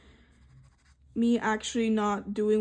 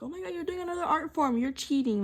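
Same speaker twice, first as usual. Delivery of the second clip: mocking voice; 6 semitones higher, faster than usual. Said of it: "what you want me to".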